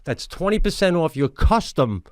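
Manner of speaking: upbeat sales pitch, punching the offer; podcast ad read. Acted. Host pitching lawn care plans to listeners, ad read. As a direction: read the sponsor copy with punchy emphasis. Reads a sponsor ad.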